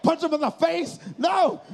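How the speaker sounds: high incredulous shout; incredulous outburst. Acted. Acted shocked reply to friend's move.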